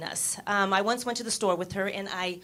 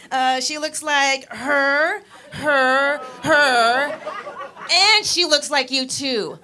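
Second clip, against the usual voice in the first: louder, hesitant pointing out; slow, louder hesitant pointing; 3 semitones higher, 6 dB louder, slower than usual. Retold or imitated. Speaker to manager pointing at each woman, louder hesitant. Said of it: "And I'm like".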